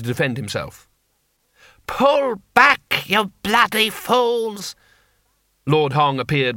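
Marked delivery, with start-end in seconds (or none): 1.9-4.8 high, drawn-out angry order; shouted command. Acted. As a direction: yell at troops to fall back. Commander yelling at his soldiers.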